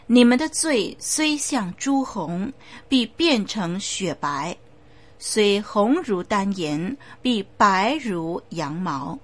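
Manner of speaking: slow, weighty reading of the promise; solemn scripture reading. Acted. Preacher reads God's promise, solemn and slow. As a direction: lingers on each phrase of the verse.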